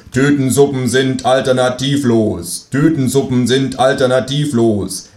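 slow, droning propaganda chant; mock slogan. Kangaroo mocking instant-soup propaganda, droning slogan. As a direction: intone it like state propaganda.

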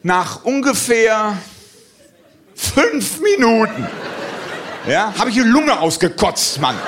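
höher und langsam, lachend erschöpft; gespielt außer Atem. Retold or imitated. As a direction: als ob die Lunge brennt. Erschöpft vom Trampolin erzählt. (gespielte Atemlosigkeit, langsam)

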